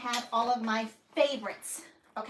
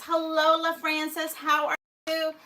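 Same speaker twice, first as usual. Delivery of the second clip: singsong greeting; 5 semitones higher than usual. Real, not acted. Greeting live chat viewer.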